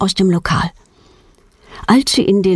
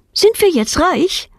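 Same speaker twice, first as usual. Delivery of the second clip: put-on high, slow, wondering child's question; hopeful child; 10 semitones higher than usual. A narrator's reading. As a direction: ask it drawn out in a little girl's high voice. Kind fragt nach dem Münzfund. (staunende, hohe Kinderfrage, langsam)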